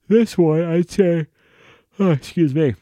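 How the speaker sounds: words swallowed by a rising, high-pitched yawn; tired yawning. Real, not acted. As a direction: try to keep talking as a yawn takes over. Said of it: "like, all tired".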